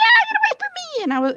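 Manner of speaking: mock shrieking outburst, very high-pitched and loud. Telling others about a lady in the store today; imitating a shrieking woman. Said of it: "she was shrieking and really loud".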